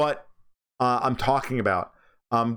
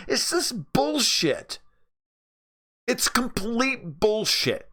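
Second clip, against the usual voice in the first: scornful; 10 semitones higher, much slower than usual. Real, not acted. Scornful dismissal of united Europe.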